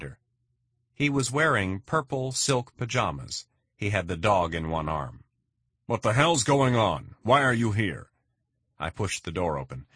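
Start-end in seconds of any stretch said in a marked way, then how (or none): 5.9-8.1 louder, higher, alarmed challenge; startled angry demand. Acted. Homeowner to intruders at his door, higher and louder alarmed anger. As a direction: bark at the men who barged in.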